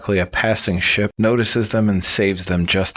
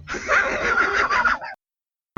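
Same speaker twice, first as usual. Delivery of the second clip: laughing. Real, not acted. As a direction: burst of real laughter at the punchline. Laughing at his own punchline.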